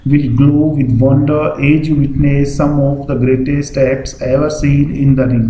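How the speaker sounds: lightly voiced show opener, slow and measured; stage announcer. Shown as a demonstration. Example speaker opening a show for the audience, slow announcer delivery. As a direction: address the audience slowly, like a mild ringmaster. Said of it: "जैसे कोई व्यक्ति आकर के कहता है".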